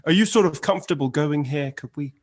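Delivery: a soothing, caring interviewer; therapist Louis. Retold or imitated. Guest imitates Louis gently checking on an interviewee. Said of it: "psychotherapist thing where he's sort of say".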